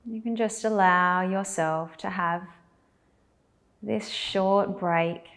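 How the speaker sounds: calm guidance in short, spaced-out phrases; guided meditation. Acted. Teacher guiding belly breaths, unhurried guided meditation. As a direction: leave long silences for them to breathe.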